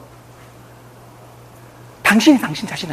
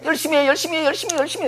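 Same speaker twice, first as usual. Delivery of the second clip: inner nagging voice; 7 semitones higher, 3 dB quieter, faster than usual. Retold or imitated.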